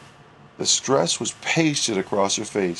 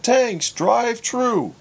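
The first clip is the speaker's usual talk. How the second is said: put-on "Tanks, drive-thru" spelled out slowly in a Newfie accent; patient Newfie accent, spoken at half speed; slow Newfie repeat; 10 semitones higher, 3 dB louder, much slower than usual. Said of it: "repeated Herbie".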